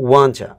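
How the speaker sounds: "want to" said slowly and carefully, each word clear; "want to" shown clearly before it blends into wanna; want to demo. Shown as a demonstration. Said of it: "ওয়ান টু হয়ে যাচ্ছে wanna".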